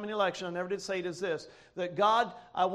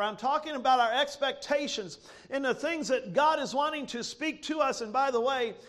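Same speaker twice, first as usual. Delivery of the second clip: raised, emphatic sermon delivery; fervent preaching; 3 semitones higher than usual. Real, not acted. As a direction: press the conviction on the congregation.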